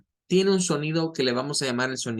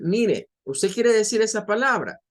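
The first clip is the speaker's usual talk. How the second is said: online teacher; 6 semitones higher, 4 dB louder than usual. Retold or imitated.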